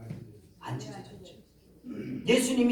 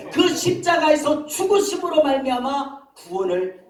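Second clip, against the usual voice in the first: loud, high-pitched proclamation; preaching at full force; 8 semitones higher, 7 dB louder than usual. Real, not acted. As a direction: proclaim the gospel loudly, stretching key words. (목청 높여 외치는 설교)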